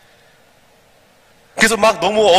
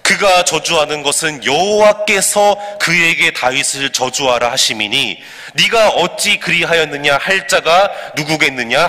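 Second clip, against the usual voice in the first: slow, measured, evenly paced recitation; congregational scripture reading. Acted. Preacher leading everyone in reading the verses, slow measured recitation. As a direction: read the verses aloud in deliberate phrases.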